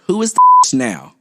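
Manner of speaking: loud, high punchline delivery; triumphant clapback. Retold or imitated. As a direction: land the final zinger hard. Reading teacher's triumphant clapback.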